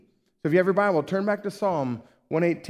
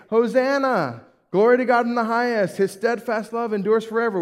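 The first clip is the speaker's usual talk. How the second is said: higher, louder cry of praise; acted shouting; 6 semitones higher, 4 dB louder than usual. Preacher asks congregation to picture Jesus riding by, shouting praise. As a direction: proclaim it as if hailing someone from a crowd. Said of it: "would you be shouting".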